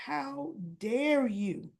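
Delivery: How dare you drawn out slowly, a touch of anger; slow mock outrage. Son accusing his father of using him: slow, restrained outrage.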